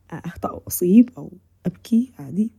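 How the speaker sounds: hushed, breathy admission to yourself; confiding whisper. Acted. Speaker voicing her inner thought, whispered. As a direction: let it slip out as a private whisper. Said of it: "confiding admission".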